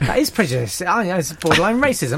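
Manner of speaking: lightly put-on London voice, protesting; exaggerated London accent. Host denies mocking his guest, exaggerated London accent. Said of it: "doing a fairly exaggerated version of someone".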